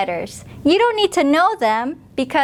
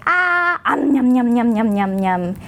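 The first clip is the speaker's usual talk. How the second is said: shark chomping; 2 semitones lower than usual. Shown as a demonstration. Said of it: "So Brother Shark goes".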